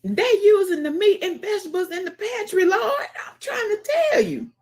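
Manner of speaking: high shouting through laughter; laughing shout. Real, not acted. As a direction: yell it while cracking up. Laughing outburst at the stream.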